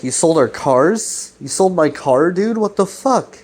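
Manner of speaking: imitated disbelief climbing to a high-pitched protest; mock indignation. Alex learns Chris sold his car, mock outrage. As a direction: retell it incredulous, rising into outrage at the end.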